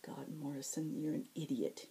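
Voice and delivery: breathy self-scolding whisper. Acted. Zack scolding himself alone in bed, whispered. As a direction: hiss it to yourself, no voice. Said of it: "he whispered".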